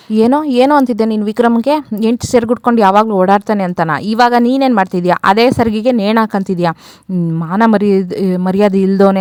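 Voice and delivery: mildly indignant mock rebuke; retold scolding. Elders shaming a young man for his hypocrisy, mild retold scolding. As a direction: tell him off, lightly acted. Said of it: "ಚೆನ್ನಾಗ್ ಬೈದ್ಬಿಟ್ಟು".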